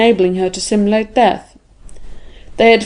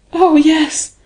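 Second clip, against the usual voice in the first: higher-pitched, impassioned outburst; fervent cry; 7 semitones higher than usual. A narrator's reading. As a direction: cry it out with feeling. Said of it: "she cried".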